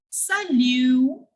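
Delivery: salut with no T at the end; silent T. Shown as a demonstration. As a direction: say salut ending on an open vowel, T left silent. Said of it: "I have not pronounced the T".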